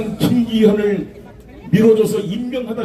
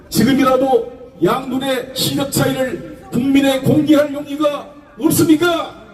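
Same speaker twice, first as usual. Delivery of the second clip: shouting; 3 semitones higher than usual. Real, not acted. Challenging the president at rally.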